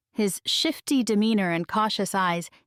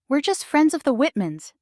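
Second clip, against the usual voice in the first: insistent; 8 semitones higher, 4 dB louder than usual. A narrator's reading. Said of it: "Juliet insists".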